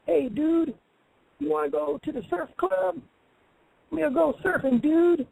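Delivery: breezy mock surfer, stretching the dudes; half-hearted surfer-bro impression. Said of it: "I can speak like a white person".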